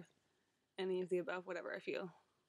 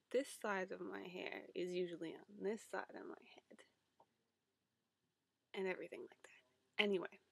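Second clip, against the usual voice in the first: whisper. Real, not acted. Whispered aside about mirrored image.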